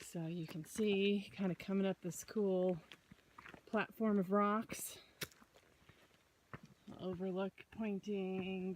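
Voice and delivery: out of breath from the climb; puffing between words; heavy breathing. Real, not acted. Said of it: "sorry for the heavy breathing here".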